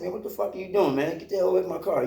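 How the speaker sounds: reliving the fury of catching him at the car; angry confrontation. Retold or imitated. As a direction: snap at the guy to get away from the car. Confronting man at his car.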